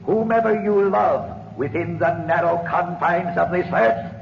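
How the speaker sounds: ominous curse. Acted. Spirit pronounces the curse.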